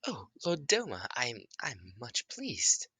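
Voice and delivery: high, slow devoted servant; grateful creature servant. Acted. Creature gratefully answers its lord.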